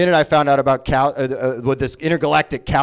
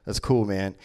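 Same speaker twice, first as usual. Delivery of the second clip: low, mumbly burnout fan voice, lower and softer; stoner fan; 9 semitones lower, 7 dB quieter than usual. Retold or imitated. A rock band's fan in the back agreeing, low and drowsy. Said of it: "in the back is like".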